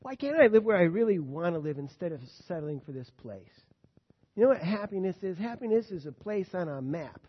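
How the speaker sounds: loud, discontented griping about home; a covetous grumbler venting; covetous complaining. Retold or imitated. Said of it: "First thought".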